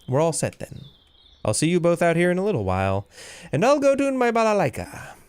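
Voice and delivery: a chirpy little musician eager to play; a hint of a perky hamster bard, no accent. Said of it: "Should probably give that guy a more Eastern European accent".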